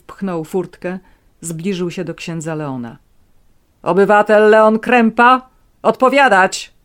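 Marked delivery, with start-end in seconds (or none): 3.8-6.7 loud, harsh command; barking order. A narrator's reading. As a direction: bark it at the priest. Officer barks at the priest.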